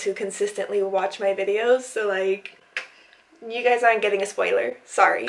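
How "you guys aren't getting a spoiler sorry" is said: short of breath, gasping between words; out of breath, pausing for air. Real, not acted. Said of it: "I've been, like, running out of breath".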